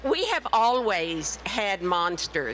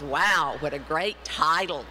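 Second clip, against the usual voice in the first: lower wow; 5 semitones lower than usual. Retold or imitated. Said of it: "the second thing they say is".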